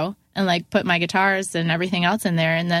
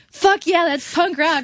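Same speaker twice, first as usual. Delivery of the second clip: excited cheer; 9 semitones higher, 3 dB louder, slower than usual. Retold or imitated. Dave cheers news of the firing.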